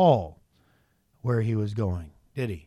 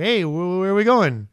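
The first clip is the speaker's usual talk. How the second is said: high, loud pestering question; insistent asking; 4 semitones higher, 7 dB louder than usual. Acted. Silas pressing Paul for a destination, insistent. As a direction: stretch it out louder, demanding to know.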